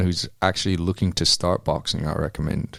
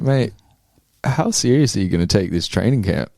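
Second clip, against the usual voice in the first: imitating a coach's reproachful question; pointed rhetorical question; 4 semitones higher, 4 dB louder than usual. Fighter quoting coach who wants him serious, pointed question. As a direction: ask it as a telling-off, pitched up. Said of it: "he said it in a way of not really asking".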